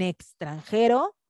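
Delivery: extranjero con la X sonando ks; X como ks. Shown as a demonstration. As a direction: pronuncia la X de extranjero como k seguida de s. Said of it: "para algunos casos suena". ("extranjero", marcando el grupo ks de la X)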